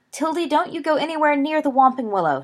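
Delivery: big sister calling a warning. A narrator's reading. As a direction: shout it up to the girl in the air. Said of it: "she called".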